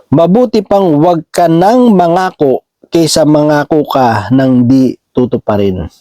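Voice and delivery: measured, deliberate Bible reading; scripture reading. Acted. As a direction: read the verse out slowly and clearly. Reads a Bible verse aloud.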